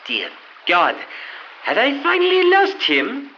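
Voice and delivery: put-on French accent. Frenchman wakes on beach.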